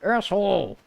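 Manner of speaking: very high, strained squeal of frustration; shrieky pitch without much extra volume; exasperated rant. Real, not acted. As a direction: whine at the game in a squeaky high voice. Exasperated at the game.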